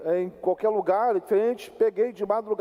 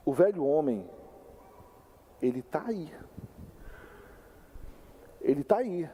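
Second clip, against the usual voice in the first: aviso sombrio; 5 semitones lower, 5 dB quieter than usual. Real, not acted. Ominous warning with long pauses.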